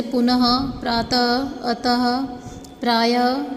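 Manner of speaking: पुनः, प्रातः, अतः, प्रायः each ending in a breath of "ha"; visarga as "h". Shown as a demonstration. Teacher showing a child how visarga sounds, पुनः ending in "ha". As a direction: say the ः closing पुनः and अतः as a light "ha". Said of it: "इसका उच्चारण ह".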